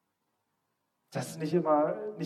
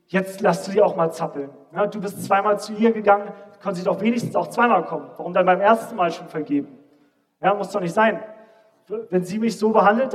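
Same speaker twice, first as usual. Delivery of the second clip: louder, pushy voice of wounded pride; inner voice shouting; 3 semitones higher, 5 dB louder than usual. Retold or imitated. Preacher voicing his own stubborn pride to the church, loud and indignant. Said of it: "da hat alles in mir geschrien".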